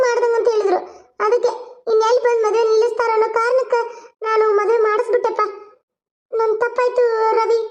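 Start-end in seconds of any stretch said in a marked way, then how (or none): 6.3-7.6 slow, contrite admission; remorseful apology. Acted. Mother apologizing to her son Ravi, slow and contrite. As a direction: say sorry slowly, owning it.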